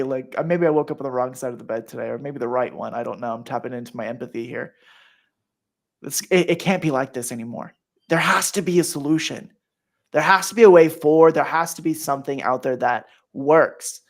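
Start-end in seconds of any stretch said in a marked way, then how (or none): 6.0-14.0 insistent, louder on the middle plea; emotional appeal. Real, not acted. Host pleading that parents need a solution, emotional and insistent. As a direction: press the point with real feeling. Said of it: "I'm getting emotional".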